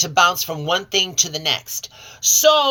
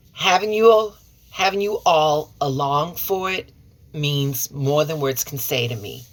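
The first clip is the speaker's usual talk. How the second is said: holding back tears; 4 semitones lower than usual. Real, not acted. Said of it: "I thought I was gonna cry".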